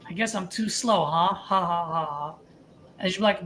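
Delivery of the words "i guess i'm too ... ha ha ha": excited. Shown as a demonstration. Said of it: "you gotta sound excited for them".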